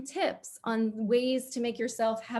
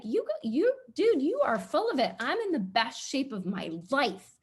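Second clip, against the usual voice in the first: higher, brash mock retort to the email; hammed-up defiant clapback, mostly higher; mock sassy comeback; 4 semitones higher than usual. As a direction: toss it back like a proud fifty-year-old. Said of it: "I'm gonna be like".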